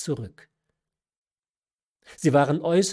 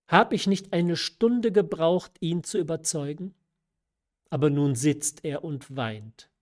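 mother's line reread higher, with Stunde now said clearly; corrected reading; 3 semitones higher than usual. Shown as a demonstration. Reader rereads the mother's line correctly, raised and lively. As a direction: restart the line, landing firmly on Stunde. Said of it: "das Wort kenn ich nicht".

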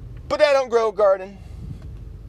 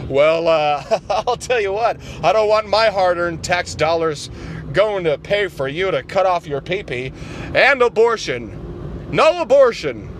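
lower, folksy conservative voice; low Republican caricature; 3 semitones lower, 3 dB louder than usual. Acted. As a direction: talk down low like a good ol' boy. Republican character again.

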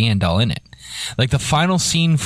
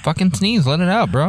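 excited; 7 semitones higher than usual. Real, not acted. Urging friend to sneeze.

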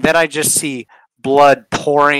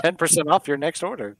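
lightly voiced sponsor announcer; joking sponsorship plug; mock ad read. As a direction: read it like a cheesy commercial spot.

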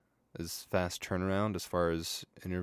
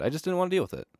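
much higher, whiny repeat; high silly voice; 12 semitones higher, much faster than usual. Shown as a demonstration. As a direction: squeak it out like a whine. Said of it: "repeated in high voice".

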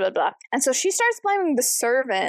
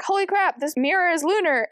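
high, startled gasp of realisation; shocked discovery; 7 semitones higher than usual. Retold or imitated. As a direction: sound caught off guard by the find. Characters discover the lunar mirror.

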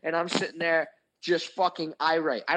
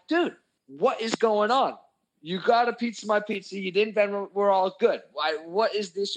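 higher-pitched indignant questioning; retold exasperated protest; 4 semitones higher than usual. Retelling his plea to needling friends, exasperated.

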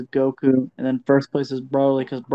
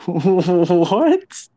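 laughing surprise; 5 semitones higher, 4 dB louder than usual. Real, not acted. Reacting to hentai joke.

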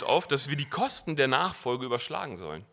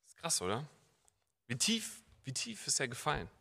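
much softer, awed; hushed reflection; 9 dB quieter than usual. Real, not acted. Reflects on Peter's fall. (leise, betroffen)

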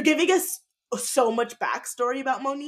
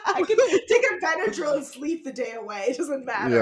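laughing; 5 semitones higher than usual. Real, not acted. Laughing about allergy meds.

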